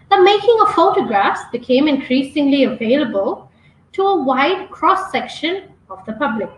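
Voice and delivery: measured demonstration reading, lifting and dropping the intonation at breaks; deliberate pauses, intonation. Shown as a demonstration. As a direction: read aloud with pauses between phrases, voice going up and down. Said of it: "read this out with those pauses".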